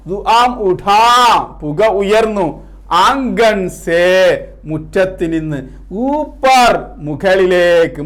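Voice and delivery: drawn-out phrases, strong calls then hushed refrain; poem recitation. Acted. Teacher reciting the second stanza to students, measured poem recitation.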